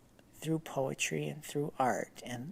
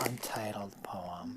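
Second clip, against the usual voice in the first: whisper; 4 semitones lower, 5 dB quieter than usual. Pretend. Dramatic poem title reveal.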